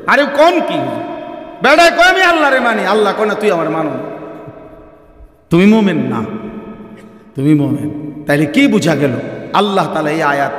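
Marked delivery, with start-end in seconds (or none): 0.1-7.9 questioning listener. Retold or imitated. Listener objecting to the preacher, incredulous and raised. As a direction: challenge the preacher in disbelief. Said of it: "আপনি তো এটা প্রশ্ন করবেন".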